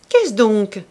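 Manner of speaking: put-on old man crying out in surprise. A narrator's reading. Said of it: "cria-t-il". (crier avec surprise)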